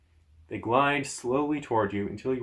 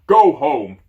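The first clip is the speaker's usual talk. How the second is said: booming giant roar, louder; giant shouting; 3 semitones higher, 12 dB louder than usual. Acted. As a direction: bellow it like an angry giant. Giant yelling at dragon.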